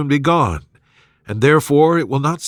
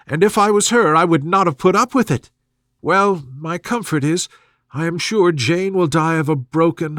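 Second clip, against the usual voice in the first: higher, fretful matron voice; fussy mother; 3 semitones higher than usual. Acted. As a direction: play the gossiping mother, higher. Mrs Bennet voiced in dialogue.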